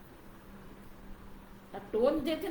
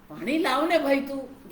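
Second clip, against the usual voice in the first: gentle request. Shown as a demonstration. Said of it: "વાક્ય એક જ છે, પણ એને તમે અલગ અલગ રીતે".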